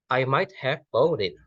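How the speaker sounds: slow classroom demo with a fall on might and a rise on bought; fall then rise. Shown as a demonstration. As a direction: slowly dip on might and lift on bought. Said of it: "might itu mengalami turunan".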